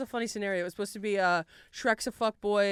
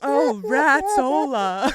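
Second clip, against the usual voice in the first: put-on loud, drawn-out accent slipping into Dracula; botched Scottish accent; 3 semitones higher, 7 dB louder, much slower than usual. Ogre in dismay, botched accent sounding like Dracula. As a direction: attempt Scottish, land in Russian. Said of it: "You sound like Dracula".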